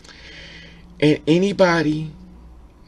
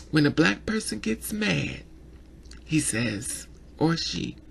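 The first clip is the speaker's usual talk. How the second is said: whispered aside, much softer; 6 dB quieter than usual. Real, not acted. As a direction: lean in and whisper it to the viewer. Confiding aside.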